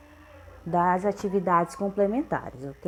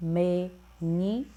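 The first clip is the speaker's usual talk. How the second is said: slow and drawn out; much slower than usual. Shown as a demonstration. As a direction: stretch "menino" out slowly, syllable by syllable. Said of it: "Próxima palavra". ("menino" bem devagar, separando as sílabas)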